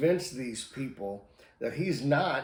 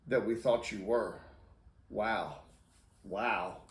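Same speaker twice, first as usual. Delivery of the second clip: stunned disappointment; 2 semitones lower than usual. Retold or imitated. Onlookers who knew Peter react to his denial, stunned and let down.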